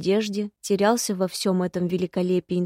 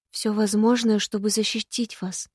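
painful hoarseness. Acted. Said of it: "В моём голосе появилась болезненная хрипотца".

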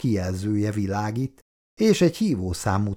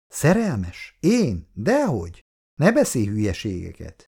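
protesting; 2 semitones higher than usual. Acted. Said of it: "tiltakozott Petya".

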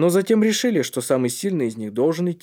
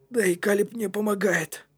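put-on amused boy; 8 semitones higher than usual. A narrator's reading. Кнут tells his friend who helps him, amused. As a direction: keep the joke going in a higher voice. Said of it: "рассмеялся Кнут".

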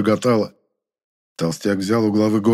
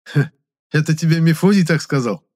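mocking; 7 semitones higher, 4 dB louder than usual. A narrator's reading. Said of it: "насмешливо спросил я".

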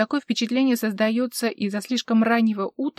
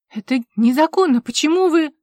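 higher, louder indignant cry; loud protest; 6 semitones higher, 8 dB louder than usual. A narrator's reading. Vivien protesting to the officer, loud and indignant. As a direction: cry out against the injustice.

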